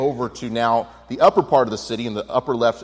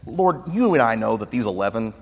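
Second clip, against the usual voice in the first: bold Peter; 3 semitones higher, 7 dB louder than usual. Retold or imitated. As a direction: play Peter boasting to his Lord. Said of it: "You can almost hear Peter saying".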